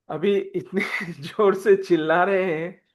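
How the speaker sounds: real laugh breaking into the words; amused laughing. Real, not acted. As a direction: chuckle while telling it. Amused telling of Bhim's bad singing. (हँसते हुए)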